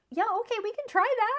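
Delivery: high, fast eager agreement; eager husband. Retold or imitated. Husband agreeing to a silly plan, high and eager. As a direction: agree brightly and quickly.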